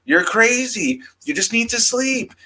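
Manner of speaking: high mocking voice, dismissive; mocking sceptic. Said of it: "everybody being like".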